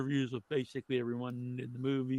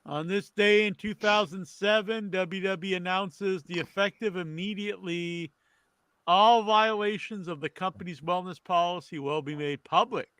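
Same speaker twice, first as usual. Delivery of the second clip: news read; 4 semitones higher than usual. Acted. Host reads today's wrestling history to the panel, news read.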